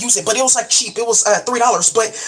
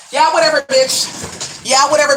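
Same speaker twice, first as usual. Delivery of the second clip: India voice; 3 semitones higher than usual. Acted. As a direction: toss it off like India would, mock sassy. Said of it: "in my India voice".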